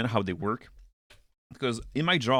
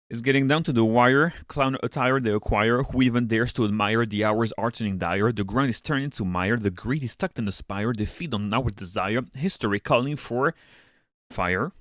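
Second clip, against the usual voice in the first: reciting rhymes with a steady beat; spoken-word recital, building pace; rhythmic poem reading. Acted. Reads own rhyming page text.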